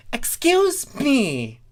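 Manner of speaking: high, slow, affronted; indignant. A narrator's reading. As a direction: draw it out, offended. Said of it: "glaring at Starlight".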